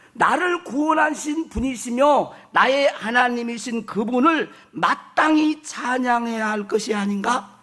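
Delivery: slow, declaimed scripture reading. Acted. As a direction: read it as a deliberate self-exhortation. (천천히 선포하는 성경 봉독조)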